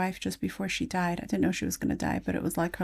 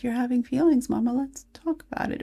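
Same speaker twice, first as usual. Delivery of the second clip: put-on toddler voice; 5 semitones higher than usual.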